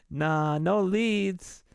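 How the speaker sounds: slow, amused brush-off; slow dismissal. Retold or imitated. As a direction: let him down slowly and smugly. Cop dismisses him.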